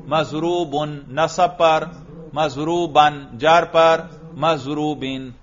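مضروبن said slowly with each case ending drawn out; case endings shown. Shown as a demonstration. Student shows the teacher the case endings aloud. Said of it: "کر کے دکھاؤ".

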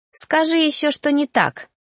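high, teasing dare; sly. A narrator's reading. Narrator dares reaper to deny it, slyly. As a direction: needle with a crafty smile. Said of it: "коварно улыбнулась я".

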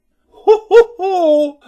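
wife laughing at the rival; scornful laugh. Acted. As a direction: cackle in contempt.

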